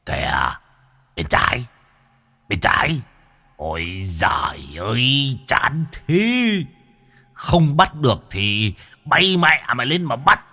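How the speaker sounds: a lightly voiced old ghost cheering at the TV; old ghost yelling at a football match on TV; football fan. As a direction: groan at the missed play like a fan. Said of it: "rú lên hô hào như là cổ động viên".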